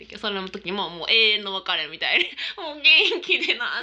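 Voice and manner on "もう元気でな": imitating tearful grandpa's farewell. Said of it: "って".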